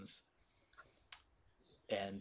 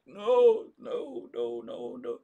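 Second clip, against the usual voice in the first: panicked denial; 3 semitones higher, 8 dB louder than usual. Acted. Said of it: "It's like".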